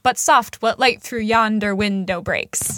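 a touch of stage Shakespeare, measured and slow; iambic recitation. Shown as a demonstration. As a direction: read it to the heartbeat meter. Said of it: "It's like".

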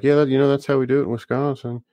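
a mild mock Wisconsin accent, proud; hint of a Wisconsin accent. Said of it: "And they're like".

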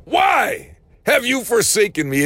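half-acted desperate cry upwards; mock cry out. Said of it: "we're screaming out".

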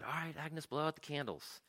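high, softened voice urging her on; gentle coaxing. Retold or imitated. Diner owner bringing the cake to Agnes, gentle coaxing. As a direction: coax her softly, pitched well up.

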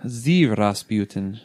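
slow mock-German accent. Co-host attempting Russian for Rasputin, landing in a German accent. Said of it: "why that was German accent just now".

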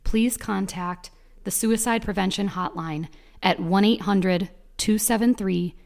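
measured hotline announcement read; composed, scripted outro read; public service announcement. Acted.

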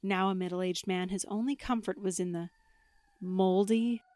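lightly dramatic storyteller; spooky story narration. Acted. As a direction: tell it like a campfire tale. Reads spooky story with music.

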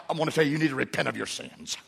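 fast, pushy preacher scolding; mock stern preacher. Parent lecturing the kids in a mild mock preachy tone. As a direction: rattle off a lecture to repent. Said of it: "It's not like".

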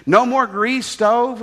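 lightly voiced Korean houseboy in broken English; a hint of a Korean teen's broken English. Korean houseboy asks the officers, lightly voiced broken English. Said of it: "He spoke broken English".

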